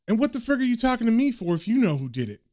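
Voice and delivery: high-pitched, flustered questioning; agitated protest. A narrator's reading. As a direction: protest in alarm at being dragged in. Rattled Lenny protests to John.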